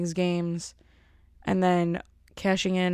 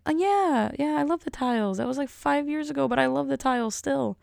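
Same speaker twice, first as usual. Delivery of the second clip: raised pitch, placating agreement; humoring; 6 semitones higher than usual. Retold or imitated. Little sister assures the dentist she loves the tiles, humoring her. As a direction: imitate a sister politely playing along.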